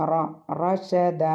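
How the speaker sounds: a thick, full റ, then റഷദ with the same heavy "r"; careful recitation with weighty റ in റഷദ. Shown as a demonstration. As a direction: darken the opening റ of റഷദ. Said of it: "ഹെവിയാണ്".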